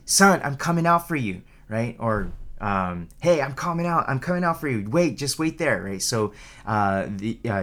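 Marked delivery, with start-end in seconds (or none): 0.1-1.4 higher, lightly raised dad's call; mock calling out. Dad to his struggling child out at sea, mock calling out. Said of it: "your dad calls out to you". 3.2-5.8 higher-pitched imitation of a dad's call; mock calling out. Dad to his child out in the ocean, mock calling out. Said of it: "your dad calls out to you".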